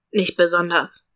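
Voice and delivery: rough, hoarse sick voice. Acted. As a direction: speak hoarsely, chest sore from pneumonia. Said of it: "antwortet er mit rauer Stimme".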